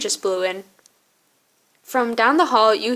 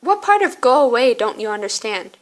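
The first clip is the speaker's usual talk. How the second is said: in a huff. Acted. Caitlin to the friend who won't leave, in a huff. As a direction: snap it at an unwelcome friend. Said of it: "plops down next to you in a huff".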